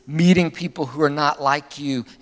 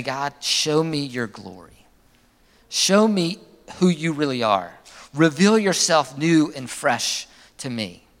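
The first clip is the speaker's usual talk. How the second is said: simple daily prayer; slower than usual. Shown as a demonstration. Pastor modelling the daily prayer for listeners, slow and sincere. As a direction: pray it gently and slowly. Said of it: "and you would say".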